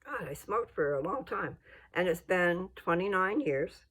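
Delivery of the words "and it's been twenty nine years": voice giving out. Real, not acted. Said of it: "my voice is going up and down".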